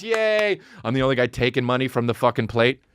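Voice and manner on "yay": high yay; mock cheer. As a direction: whoop it out. Heckling cheer in church bit.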